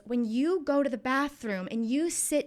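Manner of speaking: slow, patronizing mock questioning; drawn-out, belittling imitation of an interrogator; condescending retold question. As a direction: spell it out slowly, as if to someone dim. Man quizzing child as if stupid.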